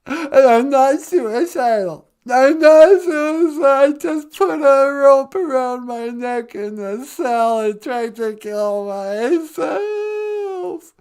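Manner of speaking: loud, whiny protest; mock tearful insistence. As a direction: plead through fake tears. Caller insists not suicidal.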